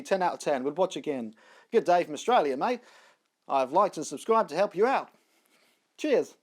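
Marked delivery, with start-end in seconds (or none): 1.7-6.3 light, hammed-up Australian accent reading a comment; bad Australian accent. Reading a viewer's comment aloud in a mock Australian accent. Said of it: "That was a bad accent".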